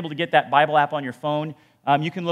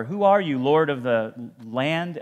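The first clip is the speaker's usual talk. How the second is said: respectful address; slower than usual. Shown as a demonstration.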